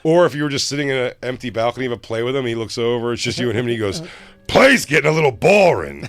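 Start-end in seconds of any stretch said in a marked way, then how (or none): 4.5-6.0 high, loud mock playgoer voice; a put-on voice announcing boredom; famous man's creepy aside. Man to the guest beside him in an empty balcony, mock casual and loud.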